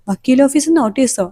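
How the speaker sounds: incredulous echo. Retold or imitated. Uncle echoes the news in disbelief.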